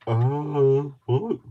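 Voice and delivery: loud, sudden "oh, what?"; startled yelp. Real, not acted. Crafter startled while talking to viewers, loud yelp. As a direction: jump at the thought.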